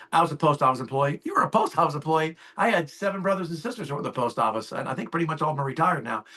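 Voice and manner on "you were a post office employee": mock-surprised question with a pitch jump; surprised echo. Agent echoing the client's old job, surprised. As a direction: repeat it back, mildly amazed.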